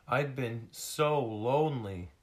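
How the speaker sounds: high, loud, plaintive seal voice; lonely little seal. Acted. Lost seal confiding in rescuers, high plaintive voice. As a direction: lament as a small lost seal.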